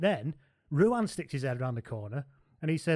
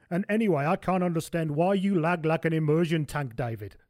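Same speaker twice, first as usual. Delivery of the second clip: put-on Johan's accent; 3 semitones higher than usual. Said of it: "the accent".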